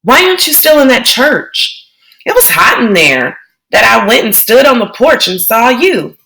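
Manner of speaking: put-on a worried young girl questioning her brother; child's voice, rising alarm; little sister Joey. Joey worried about Kenny.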